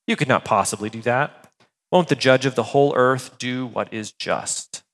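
measured, even Bible reading; scripture reading. Acted. Pastor reads Genesis to the congregation, measured and even. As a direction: read the passage steadily to the congregation.

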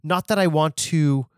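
barge in as the co-host's alter ego; summoned sidekick voice. Acted. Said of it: "since you summoned me".

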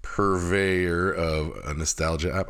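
plosive pops hitting the mic; mic pops on every p; popping p sounds. Real, not acted. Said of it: "I'm sorry about the pops".

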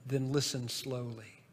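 soft, slow, hushed reply; gentle child's answer. Retold or imitated. Daughter gently answering her busy father, soft and slow. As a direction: hand the lesson back quietly. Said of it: "I'll never forget her response".

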